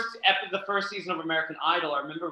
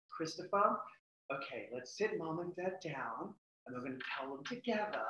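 calming nan; 2 semitones higher, 8 dB quieter than usual. Retold or imitated. Nan soothing crying grandson.

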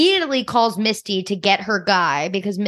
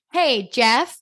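casual mock call, barely any louder; same unraised voice; 3 semitones higher than usual. Mom calls Jeff over mid-conversation, in the same conversational voice. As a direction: imitate calling someone over without really raising the voice. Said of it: "same voice, like, barely any louder".

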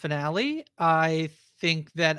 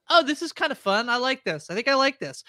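bright, rising delight; excited; 7 semitones higher than usual. Retold or imitated. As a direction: sound pleasantly surprised. Excited self quote.

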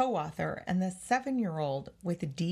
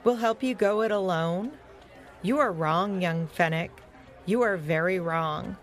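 stern rebuke; 5 dB louder than usual. Acted. Cody stares down young Fennec, stern rebuke. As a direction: lay down each phrase with weight.

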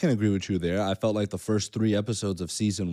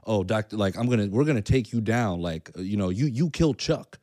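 acting hard and aggressive; tough guy. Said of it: "She's more like".

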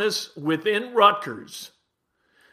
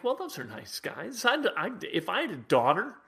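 soft, much quieter, a gently mocking inner voice; mock nice-guy musing; 6 dB quieter than usual. Host mocking what fans think of nice players, soft and quiet. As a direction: hush it like a naive fan admiring polite players. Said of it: "and you think".

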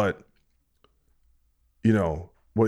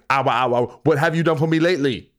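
higher, louder mock yelp then question; mock pained fan; 4 semitones higher, 4 dB louder than usual. Slapped fan repeats the question, hammed-up pained yelp. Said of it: "And they go".

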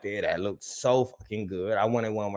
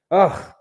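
loud, higher groan of delight; swooning groan; 6 semitones higher, 8 dB louder than usual. Real, not acted. Fan recalling the cheerleaders, swooning groan. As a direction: groan as if overwhelmed.

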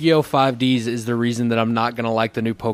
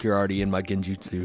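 smug quiet; 5 semitones lower, 8 dB quieter, faster than usual. Retold or imitated. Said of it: "he's like".

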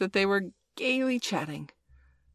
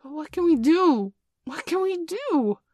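panicked wail; 12 semitones higher, 5 dB louder than usual. A narrator's reading. Boys facing the wolves with Nibs down, panicked wail. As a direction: wail it helplessly, pitched way up.

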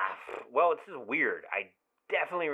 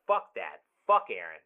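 angry outburst; 4 semitones lower, 4 dB louder than usual. Acted. Friend pissed for his buddy after the breakup, angry. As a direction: curse the ex on a friend's behalf.

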